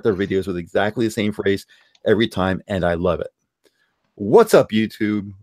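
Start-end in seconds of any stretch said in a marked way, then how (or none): 4.2-5.3 lightly imitated YouTuber greeting; Boogie intro. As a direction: quote a familiar video opener with a punchy first word. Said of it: "every single time Boogie does that".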